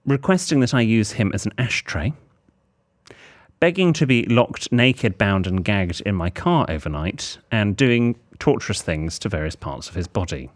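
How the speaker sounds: deliberate list, paused between items; letter read aloud. Acted. Host reads the partner's suggestions to listeners, deliberate letter-reading voice. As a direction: read the list out formally, item by item.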